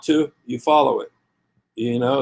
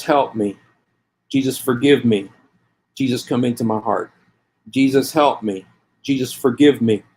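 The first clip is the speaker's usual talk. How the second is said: leading a prayer. Acted. Street preacher leading listeners in a sinner's prayer, earnest.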